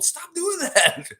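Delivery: high, slow stop-it plea; scolding. Acted. Streamer scolding O G over bottles, high slow scold. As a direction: drag it out like a fed-up scold.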